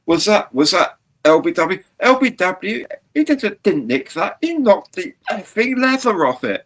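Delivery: high-pitched cricket commentary outburst; excited uncensored commentator. Acted. Cricket commentator disputing an LBW on a midnight show, excited. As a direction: act out an incredulous commentator, pitch soaring. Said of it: "commentators could say what they wanted".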